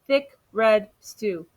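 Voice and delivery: slow, relishing answer; savoring. Acted. Amu proudly naming her stew, slow and savoring. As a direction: draw out each word lovingly.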